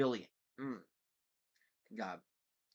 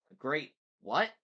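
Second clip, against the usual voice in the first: loud, rising, baffled question; puzzled question; 5 semitones higher, 8 dB louder than usual. A narrator's reading. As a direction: jump up on the last word, baffled. Hero queries villain's strange term.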